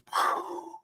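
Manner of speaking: soft blown "poof" of an explosion; breath-only explosion noise; imitated explosion. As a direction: puff out a blast noise without voice. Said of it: "and it goes".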